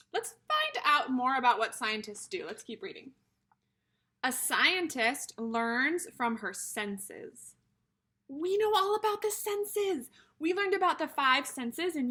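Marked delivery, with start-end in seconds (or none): 4.2-7.5 slow read. Shown as a demonstration. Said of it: "teacher reads heading slowly".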